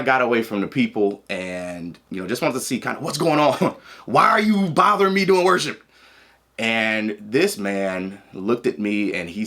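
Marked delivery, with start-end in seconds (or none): 4.0-5.8 laughing mock annoyance. Retold irritated thought.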